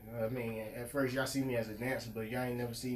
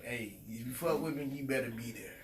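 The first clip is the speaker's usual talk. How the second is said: sexy voice; 6 dB quieter than usual. Pretend. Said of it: "Had to put my sexy voice on".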